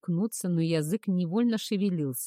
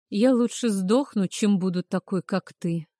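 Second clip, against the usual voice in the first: громко и зло; бросить с презрением; выплюнуть со злостью; 3 semitones higher, 6 dB louder than usual. Acted. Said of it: "выплюнула я". (с отвращением, громко)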